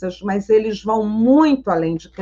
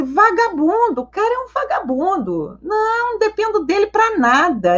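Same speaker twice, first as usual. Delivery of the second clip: imitating tearful patient; 8 semitones higher than usual. Crying patient complains to therapist about boyfriend, mock wailing. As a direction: wail it high like the weeping client. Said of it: "Ela disse, chorando".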